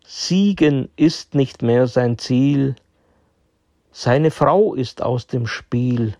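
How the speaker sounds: measured poem reading with deliberate pauses; poem recitation. Acted. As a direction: recite it line by line, pausing after each. Recites his own chess poem. (Gedicht vortragen, mit deutlichen Pausen)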